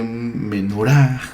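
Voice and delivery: menoRAH, Menorah with a long stressed last syllable; final-syllable stress. Shown as a demonstration. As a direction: draw out the "rah" of Menorah slowly. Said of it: "el acento recae siempre en la última sílaba".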